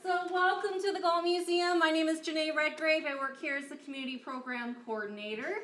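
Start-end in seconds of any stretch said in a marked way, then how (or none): 0.0-1.8 teacher voice. Real, not acted. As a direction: call the room to attention. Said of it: "if I use my teacher voice".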